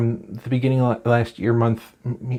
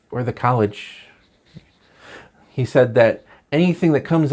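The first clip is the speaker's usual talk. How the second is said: late-night topical monologue read; measured set-up, then the punchline; monologue delivery. Acted. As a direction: deliver it like a talk-show host's news jokes.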